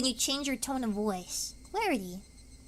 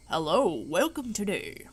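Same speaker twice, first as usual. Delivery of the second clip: lightly formal greeter voice; official announcer; 2 semitones lower than usual. Retold or imitated. Streamer imitating a formal official announcer. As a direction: welcome them like an official host. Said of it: "official voice someone".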